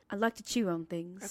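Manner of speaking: a lightly put-on, badly done accent for Bob; half-hearted comic accent, voice barely shifted; terrible accent. Husband playing Bob the chewer for his wife, in a weak put-on accent. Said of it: "I guess this is a terrible accent".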